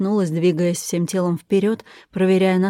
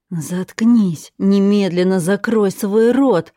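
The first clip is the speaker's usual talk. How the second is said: louder, unhinged order to shut up; shrieking; 4 dB louder, slower than usual. Acted. Furious captor orders the chained woman silent, shrieking. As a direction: scream her down, losing control. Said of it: "завизжала".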